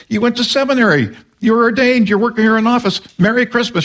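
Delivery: pressing the point home with a grin; retold rebuke.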